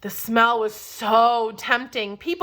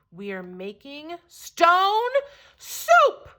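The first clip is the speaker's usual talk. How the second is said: excited announcement; 4 semitones higher, slower than usual. Acted. Traveler announces soup.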